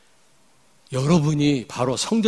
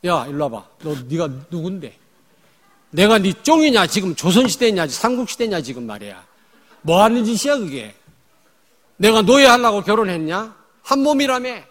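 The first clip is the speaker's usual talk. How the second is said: louder, higher scolding of a husband; mock confrontation; 6 semitones higher, 7 dB louder than usual. Wife talking back to husband, acted indignation. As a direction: act out the wife fighting back. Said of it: "한번 대들어요".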